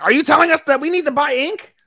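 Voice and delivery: put-on high, incredulous girl voice; Yumechi's voice. Yumechi asking the girls about ink, high and incredulous. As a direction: squeak it up like a baffled schoolgirl. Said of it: "Yumechi was like".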